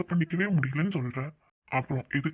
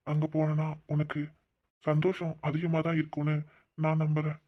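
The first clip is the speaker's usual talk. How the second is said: tender consoling. Acted. Man pleading with his crying sweetheart to stop, tender. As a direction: coax them gently out of tears.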